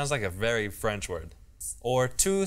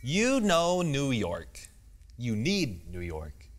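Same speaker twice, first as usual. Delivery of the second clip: TV anchor. Shown as a demonstration. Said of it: "You sounded like a T V anchor".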